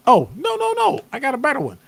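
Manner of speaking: high and loud no no no; playful change of mind. Real, not acted. Swapping names in his example, laughing no no. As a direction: backpedal with a laugh in the voice. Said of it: "changes his mind mid-example".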